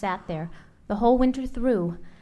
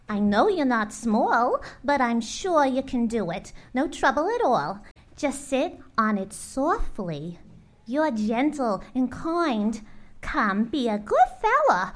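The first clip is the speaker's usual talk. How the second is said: coaxing bird; 3 semitones higher than usual. Acted. Maisie keeps coaxing Horton.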